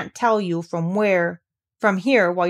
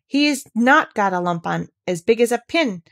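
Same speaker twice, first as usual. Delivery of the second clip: put-on girl defending the boy in fierce anger; indignant near shout. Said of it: "almost shouting up the wall in her fierce indignation".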